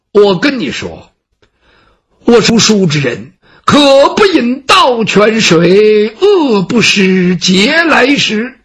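slow, proud recital of principles; lofty scholar declaiming. Acted. Gongsun Ce lectures the servant on his pride, slow declaiming. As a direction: declaim it like a classical maxim.

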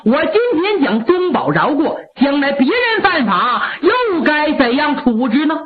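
a stern marshal, lightly voiced, firm; stern displeasure. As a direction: lay down military law to his mother, unbending. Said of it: "六郎挺不高兴".

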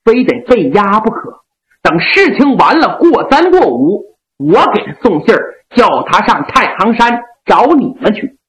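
noble general gently scolding his loyal men; Yang Liulang. Acted. Yang Liulang voiced by storyteller.

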